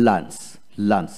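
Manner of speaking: লাঞ্চ with an A sound in place of U; U not pronounced. Shown as a demonstration. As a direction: model লাঞ্চ with a short A vowel. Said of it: "ইউ উচ্চারিত হবে না।". (লাঞ্চ, ইউ-এর জায়গায় এ ধ্বনি)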